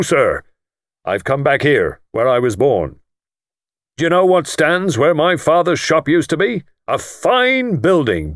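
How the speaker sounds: self-made lord showing off to the guest; triumphant. Acted. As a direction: finish with a swelling flourish. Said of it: "wound up triumphantly".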